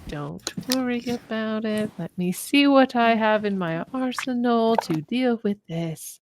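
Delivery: lightly voiced composed reassurance; Viola. Game master as a character calming the party, drawn-out mild composure. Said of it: "she turns to you guys and she goes".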